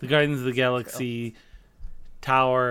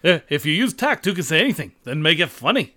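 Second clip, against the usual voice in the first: Rodney Dangerfield. Acted. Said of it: "do a Dane Cook routine as Rodney Dangerfield".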